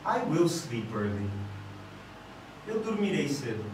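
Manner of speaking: low, soft, tentative delivery; unsure intonation. Shown as a demonstration. Teacher shows students a sentence sounding uncertain, low and hesitant. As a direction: say it quietly, as if not committed. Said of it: "eu posso inverter a minha intenção, minha entonação".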